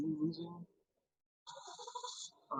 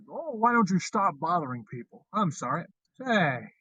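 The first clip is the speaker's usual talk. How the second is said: Jimmy Stewart impression; 3 semitones higher, 5 dB louder than usual. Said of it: "one of my favorite lines is from, It's a Wonderful Life".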